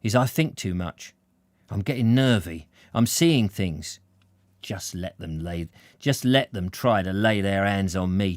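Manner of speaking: lightly voiced jittery man talking to himself; a hint of nerves turning to defiance; story character muttering his worries; nervy working man.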